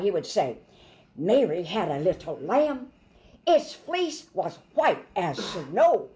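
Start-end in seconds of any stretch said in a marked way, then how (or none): 1.1-6.1 lively, animated nursery rhyme; lively storytelling. Shown as a demonstration. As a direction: say it like it's alive. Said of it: "No, no, no. He's alive".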